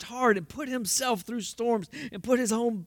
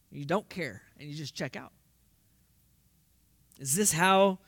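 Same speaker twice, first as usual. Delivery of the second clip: usual speaking voice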